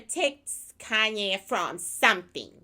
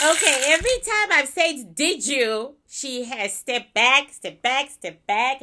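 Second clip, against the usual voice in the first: excited; 3 semitones higher, 4 dB louder than usual. Real, not acted. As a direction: share the discovery eagerly. Excited report of spirit's reaction.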